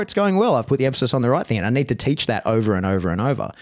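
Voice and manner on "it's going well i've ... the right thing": a light lift of relief that it worked; pleased. Retold or imitated. Trainer imagining the lesson landed, pleased and upbeat.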